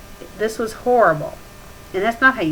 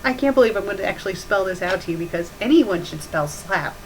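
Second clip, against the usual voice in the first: usual speaking voice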